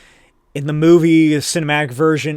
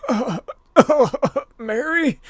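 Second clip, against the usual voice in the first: dazed Daredevil; 10 semitones higher, slower than usual. Retold or imitated. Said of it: "And Daredevil's like".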